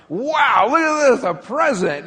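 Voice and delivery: put-on high, loud kid's wow; excited child. Child at a birthday party thrilled by a present. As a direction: burst out like a thrilled nine-year-old.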